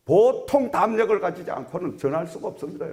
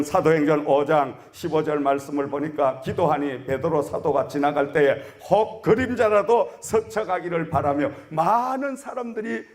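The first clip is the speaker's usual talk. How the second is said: normal talking voice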